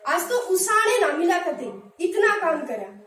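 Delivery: everyday Haryanvi village talk; Haryanvi accent. Shown as a demonstration. Teacher giving a Haryanvi example of उसाण. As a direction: say it like a tired Haryanvi farmer. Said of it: "Haryanvi अंदाज".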